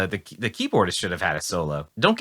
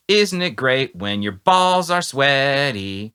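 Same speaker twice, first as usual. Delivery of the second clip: slow, louder, hammed-up crude lyric; mock crude lyric; 3 semitones higher, 4 dB louder, much slower than usual. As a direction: drag out the dirty words like a joke song. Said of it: "if he was just like".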